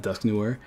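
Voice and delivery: "Dusk Noir" with a hard final R; "Dusk Noir" ending in an English R; wrong, anglicised pronunciation. Shown as a demonstration. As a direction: say "Noir" as noo-WAR. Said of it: "It's not Dusk Noir".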